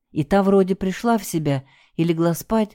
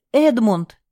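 shouting the name, louder; 5 semitones higher, 4 dB louder than usual. Acted. Wife shouting for Edmund in a dark storeroom. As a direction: call out in alarm. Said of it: "закричала Елена".

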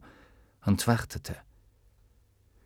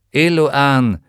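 calling out; 5 semitones higher, 8 dB louder than usual. Acted. Calling the djinn.

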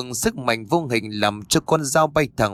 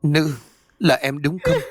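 calling out; 3 semitones higher than usual. Acted. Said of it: "ông Phú liền gọi lớn".

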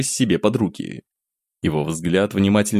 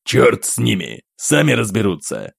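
cold and firm. Acted. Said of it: "прозвучал холодно и твёрдо".

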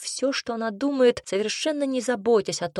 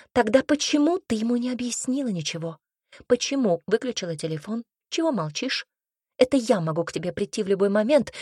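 put-on louder, sharp scolding girlfriend; blunt scolding friend; 2 semitones higher, 4 dB louder than usual. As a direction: tell her off without mercy. Tanya scolds her friend.

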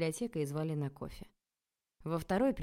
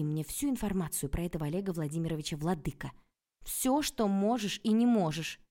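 commanding; 5 dB louder than usual. Acted. Heroine commanding.

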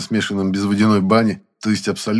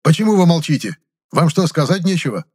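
loud, higher, demanding blurt; angry outburst; 9 semitones higher, 4 dB louder than usual. A narrator's reading. The boss demands an answer, angry. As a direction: blurt it out angrily. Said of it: "сердито выпалил".

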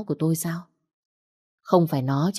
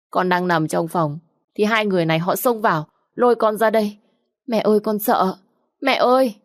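higher, rising whimper to mother; fake crying; 4 semitones higher than usual. Stepdaughter fakes tears to her mother against her sister, whiny fake sobbing. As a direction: put on tears to win mom over. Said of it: "Nhã Thi thực sự rất giỏi khóc".

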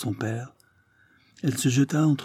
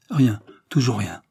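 crying out; 4 dB louder than usual. Acted. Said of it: "s'écria le Breton".

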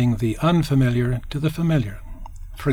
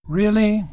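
Really? pitched high, falling; raised doubtful Really?; 7 semitones higher than usual. Shown as a demonstration. Showing ways to say really, high and falling. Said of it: "we can say really in many ways".

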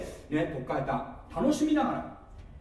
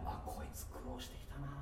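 fond sympathy; 3 semitones lower, 15 dB quieter than usual. Retold or imitated. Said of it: "なんか愛おしく思うんだよね".

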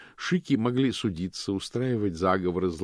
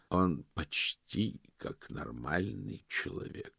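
father's voice; 7 dB quieter, slower than usual. Acted. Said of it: "прозвучал голос его отца".

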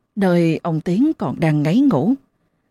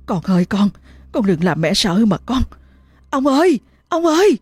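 pleading; 4 semitones higher than usual. Acted. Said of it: "mà lạy nó".

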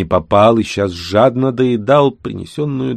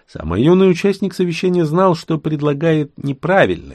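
usual speaking voice

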